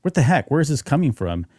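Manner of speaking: mock bewilderment, lightly done; floored reaction. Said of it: "like, floored".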